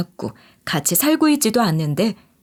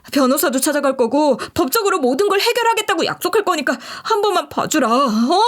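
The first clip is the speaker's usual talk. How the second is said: higher, whiny begging man's voice; pleading ex-fiancé; 4 semitones higher than usual. Acted. Ex-fiancé begging his former bride on the phone, higher whiny pleading. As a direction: beg desperately for one more chance. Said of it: "이런 식으로 애걸복걸 하더라고요".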